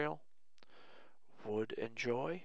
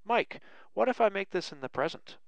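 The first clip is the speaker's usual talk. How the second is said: higher, louder, curious student question; imitating a student; 6 semitones higher, 6 dB louder than usual. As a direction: ask it like an eager student. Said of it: "now you're probably saying".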